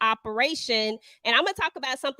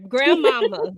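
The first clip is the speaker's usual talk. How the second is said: slow; 4 dB louder, slower than usual. Shown as a demonstration. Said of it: "Girl, grandmother".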